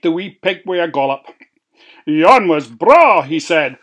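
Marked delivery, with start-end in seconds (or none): 2.1-3.2 satisfied wolf. Acted. Wolf savours meal, slow.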